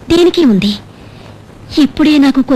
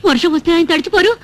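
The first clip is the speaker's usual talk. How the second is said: tearful worry. Acted. Mother worrying aloud to her daughter, tearful. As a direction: voice catching on a sob of worry. Mother frets over donkey-husband in rain.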